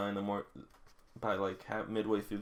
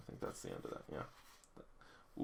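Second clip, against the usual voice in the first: muttered aside; 15 dB quieter, slower than usual. Real, not acted. Vlogger trails off under breath.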